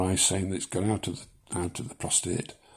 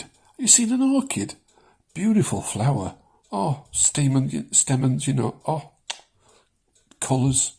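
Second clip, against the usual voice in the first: higher, hammed-up gushing over a flower; mock rapture; 5 semitones higher than usual.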